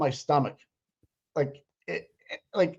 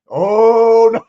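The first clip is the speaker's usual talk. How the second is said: gleeful outburst; 4 semitones higher, 9 dB louder than usual. Real, not acted. Cheering a courtroom moment.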